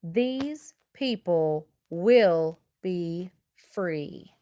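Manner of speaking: slow, intense whisper; very slow whispered promise; solemn whisper. Acted. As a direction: vow it under your breath. Solemn vow for slaves' freedom.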